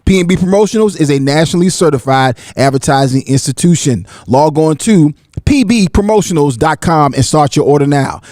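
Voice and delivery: brisk, scripted promo delivery; sponsor ad read. Acted. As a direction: read it like a radio sponsor spot. Reads a sponsor ad.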